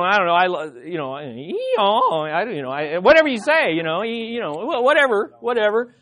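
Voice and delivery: mumbling stranger's call. Retold or imitated. Preacher imitating a stranger's muddled call to the sheep, mock mumbling. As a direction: garble the call like a shepherd the sheep don't know. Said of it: "you'd go".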